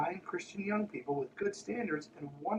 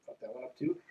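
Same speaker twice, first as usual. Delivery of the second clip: sarcastic aside; 11 semitones higher, 7 dB quieter than usual. Real, not acted.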